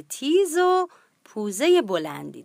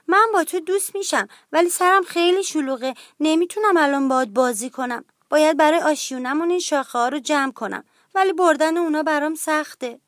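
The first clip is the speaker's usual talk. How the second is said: higher-pitched, hurried little duck; in a hurry; 5 semitones higher, 4 dB louder than usual. Acted. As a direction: rattle it off busily, pitched up. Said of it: "گوگولی با عجله گفت". (با عجله، با صدای زیر)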